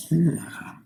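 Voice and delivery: a sudden, loud, high yeah; loud impressed yeah. Acted. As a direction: blurt it out, impressed. Son reacts to dad's speech.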